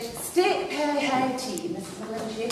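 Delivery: slow, careful posh receptionist; posh phone voice. Retold or imitated. Receptionist reading the menu to the caller, slow and posh. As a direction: stretch it out in put-on posh. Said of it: "I decided I'd be rather posh".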